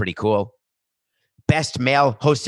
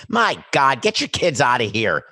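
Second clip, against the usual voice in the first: exasperated disbelief; 3 semitones higher, 5 dB louder than usual. Retold or imitated. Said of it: "I was thinking to myself".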